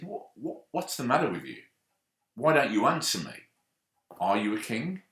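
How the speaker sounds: rising anger that demands an answer; irritated outburst. A narrator's reading. Pilate losing patience with silent Jesus, angry shout. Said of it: "Pilate starts to get a bit irritated".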